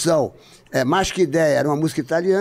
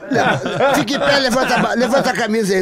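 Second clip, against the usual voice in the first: laughing tease; 3 semitones higher than usual. Real, not acted. Teasing friend, laughing.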